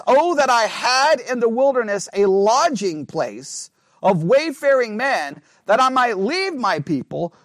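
slow, measured reading of the verse; scripture reading. Acted. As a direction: read the prophet's words out deliberately. Reads the verse aloud.

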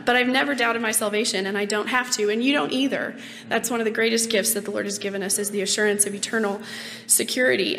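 rough, raspy smoker's voice; hoarse voice. Real, not acted. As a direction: talk through a scratchy throat. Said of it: "I don't usually sound like a groveling smoker".

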